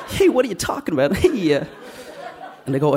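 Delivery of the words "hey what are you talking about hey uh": much higher, louder cheesy superhero entrance; hammed-up Spider-Man. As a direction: burst in like a bad party-entertainer hero. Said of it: "I was like".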